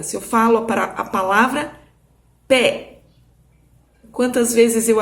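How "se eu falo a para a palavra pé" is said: pé said crisply as one open-mouthed syllable; clear demo word. Shown as a demonstration. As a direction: show pé as a single mouth opening. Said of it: "preste atenção na minha boca".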